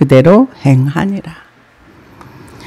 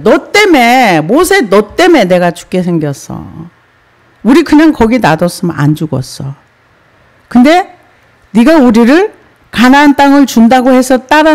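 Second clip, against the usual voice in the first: mock resentful complaint; 3 semitones higher than usual. Voicing grumbling people at Moses.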